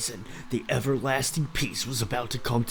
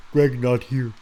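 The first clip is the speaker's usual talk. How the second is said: mock broken speech; 6 dB louder than usual. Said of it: "dude speaks like that".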